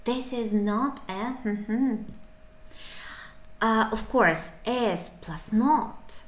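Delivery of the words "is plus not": slow explanation. Shown as a demonstration. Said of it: "It's preferably will be pronounced like isn't".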